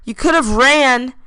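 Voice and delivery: teasing. Acted. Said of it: "Turner said".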